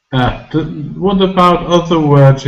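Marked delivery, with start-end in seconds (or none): 0.1-0.5 "A" said as a very short eh sound; short vowel. Shown as a demonstration. Teacher answering short or long for learners, "A" as a very short eh. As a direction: cut "A" short, like the vowel in shelf. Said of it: "So it's very short".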